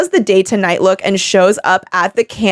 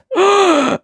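imitated gasp; 11 semitones higher than usual.

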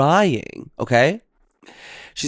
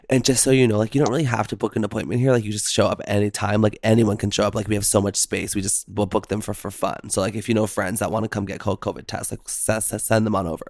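casual confiding aside; 3 semitones lower, faster than usual. Retold or imitated. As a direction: rattle it off casually like a friendly tip. Clinic worker's confiding aside, retold.

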